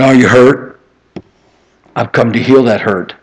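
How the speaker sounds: soft, gentle promise of healing; tender God's voice. Retold or imitated. God speaking to the one who wronged him, softly tender. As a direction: offer comfort like a loving father. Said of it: "he said".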